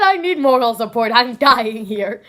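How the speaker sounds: loud, stretched-out melodramatic complaint; hammed-up cry for help; mock-desperate plea. Mock panic retelling own reaction.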